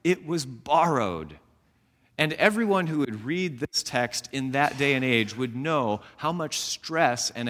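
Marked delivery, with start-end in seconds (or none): 0.0-1.4 crying out. Retold or imitated. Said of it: "He simply cries out and said".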